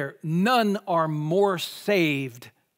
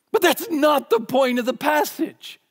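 much higher and louder, almost singing it out; emphatic rebuttal; 7 semitones higher, 4 dB louder than usual. Real, not acted. Preacher to congregation, a loud high rebuttal. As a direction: hammer home that it misses the point. Rejecting a wrong interpretation.

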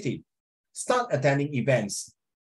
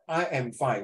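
"I am fine" at usual pitch, closed on fine; full-stop intonation. Shown as a demonstration. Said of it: "full stop".

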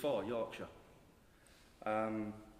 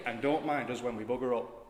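put-on Yorkshire accent; 3 dB louder than usual. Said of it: "In a Yorkshire accent".

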